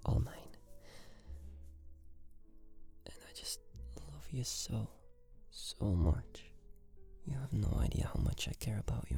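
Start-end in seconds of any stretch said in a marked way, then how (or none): 0.1-4.9 sweet nothings. Acted. Boyfriend soothing sweet talk.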